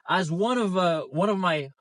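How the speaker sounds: jolted by a bumpy ride; speaking over road bumps. Real, not acted. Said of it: "sorry about the bumps".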